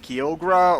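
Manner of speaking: Kyogre said as kee-OH-gruh; guessed old pronunciation. Shown as a demonstration. Recalling a childhood guess, Kyogre as kee-OH-gruh. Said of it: "I think I might have said".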